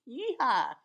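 cowboy whoop. Acted. Cowboy whoop for country music.

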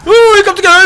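sudden high loud startle; startled yelp. Real, not acted. Streamer jolted by a monster popping out, high loud startle. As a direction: jump out of your skin, real.

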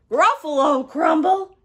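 loud, high, rising question; alarmed echo. Acted. Gruffalo learns he may be eaten, loud alarm. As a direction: repeat it as a horrified question. Monster echoes threat in alarm.

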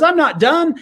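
lightly voiced daredevil showman; showman's boast. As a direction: tease the crowd with it. Daredevil announcing another crossing.

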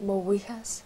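"Mo wichas" said as Gaelic for thank you; Gaelic pronunciation. Shown as a demonstration. Singer shows interviewer how to say thank you, Gaelic pronunciation. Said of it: "you'd say".

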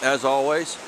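high, breathless wry relief; sarcastic relief after the scramble. Real, not acted. After steep scary descent.

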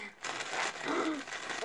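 soft breathy gasp of effort; effortful gasp. Real, not acted. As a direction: gasp while straining at a stuck package. Struggling to open the package.

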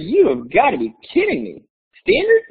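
incredulous outburst. Retold or imitated. Retold outrage at request.

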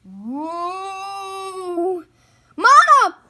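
high, very loud scream for parents; terrified cry. Acted. Sister screaming for her parents in fright. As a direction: shriek for Mama and Papa. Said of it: "she cried".

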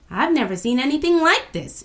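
high, loud exclamation; amazed shout. A narrator's reading. Kwesi seeing the sunflower field, amazed shout. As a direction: shout it out in wonder. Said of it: "shouted Kwesi".

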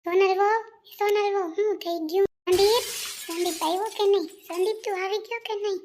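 high, loud calls for the son; calling out. Acted. Elder calls out to Sandeep about the fallen bride, high and loud. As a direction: call across the house in alarm.

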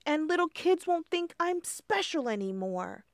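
high, pleading, upset voice; high, wailing worry; distressed ladybug. Acted. Lindy despairs, near tears.

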